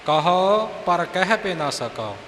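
ਕਹੋ ਪਰ ਕਹਿ ਭੇ ਨਾ ਸਕੋ with the ਕਹਿ clearly marked; ਕਹੋ with jamak. Shown as a demonstration. Teacher demonstrating the jamak on ਕਹੋ, careful recitation. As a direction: let the ਕਹਿ land clearly. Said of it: "ਕਹੋ ਜਮਕ ਲੱਗੇਗੀ".

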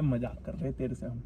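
low, soft, laughing confession. Real, not acted. Man revealing the prank to his friend, laughing. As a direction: let the laugh weaken the words.

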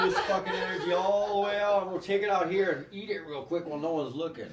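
high and loud, still laughing. Retold or imitated. Describing Buddha's move while laughing. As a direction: giggle through the tale. Laughing story of stealing energy.

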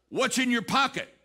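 a retold parental "what have you got"; lightly acted mother's probing question. Mother questioning toddler in retold story.

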